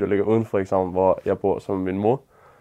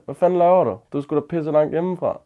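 called out; 5 semitones higher than usual. Retold or imitated. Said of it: "råber over på den anden side af vejen".

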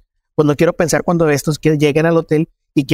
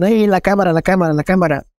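retold shouting; 3 semitones higher than usual. Armed youths demanding the camera from him, mild retold yell. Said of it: "Me empiezan a gritar".

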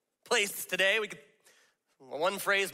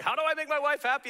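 earnest newlywed; 8 semitones higher than usual. Retold or imitated. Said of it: "he was like".

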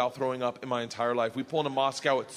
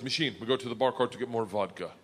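lightly voiced Russian gangster; a hint of a Russian accent; Big Igor; 4 semitones lower, 3 dB quieter than usual. Igor sends his American pal for vodka, lightly voiced Russian. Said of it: "Big Igor stands up and he goes".

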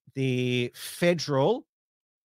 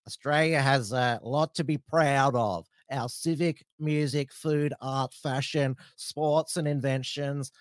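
put-on broad Australian accent; 2 semitones higher than usual. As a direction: read it like a broad-accented bogan. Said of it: "How was my, uh, Bogan accent".

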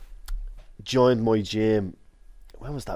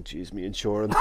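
laughing panic; 4 dB quieter than usual. Retold or imitated. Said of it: "I'm going".

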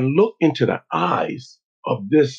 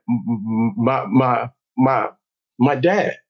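imitated stutter; 3 semitones lower, slower than usual. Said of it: "you used to st-, st-, stutter".

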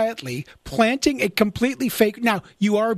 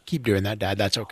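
low, soft aside; secret encouragement; 11 semitones lower, 6 dB quieter than usual. Acted. Son secretly approving of dad's rumors, hushed encouragement. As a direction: drop the voice to quietly egg him on.

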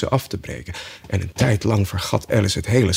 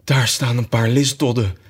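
sudden joy. Acted. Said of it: "in een plotse vervoering van vreugde".

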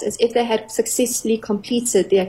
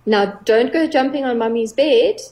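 playful warning. Shown as a demonstration. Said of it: "you say it in a playful way".

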